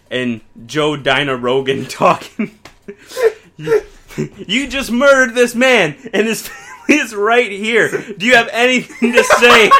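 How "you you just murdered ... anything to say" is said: higher, louder excited interviewer; hammed-up interviewer. Rogan confronting McGregor on TV, loud and excited. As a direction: shout the question with a laugh.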